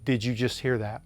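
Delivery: understated, even question; matter-of-fact. Retold or imitated. Dad asking his sons about a sound, matter-of-fact. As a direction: ask it plainly, as a matter of fact. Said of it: "in a very matter-of-fact way".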